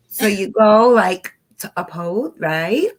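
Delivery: mock California Valley-speak; lightly exaggerated California style. Shown as a demonstration. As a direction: put on a laid-back Californian accent. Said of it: "let me say it in California style".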